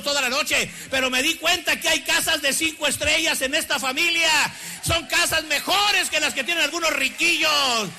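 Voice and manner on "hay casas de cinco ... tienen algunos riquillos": raised preaching voice, building; fervent preaching. Acted. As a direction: proclaim it to the congregation. Preaching at full force.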